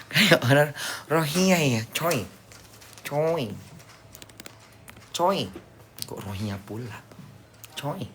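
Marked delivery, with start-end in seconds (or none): 0.1-5.4 laughing. Real, not acted. Speaks while still laughing.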